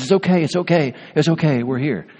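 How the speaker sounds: a hint of a fireman calming a victim; mild reassuring fireman. Fireman hugs scared victim.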